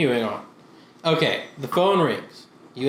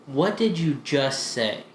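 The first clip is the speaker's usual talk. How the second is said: slow question; 2 semitones lower, 4 dB quieter, slower than usual. Retold or imitated. Thai kids slowly repeat question.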